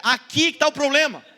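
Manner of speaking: bold declaring preacher voice; prophet voice. Shown as a demonstration. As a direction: proclaim it like a prophet. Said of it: "Fala com voz de profeta".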